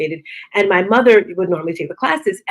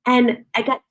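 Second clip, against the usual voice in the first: usual speaking voice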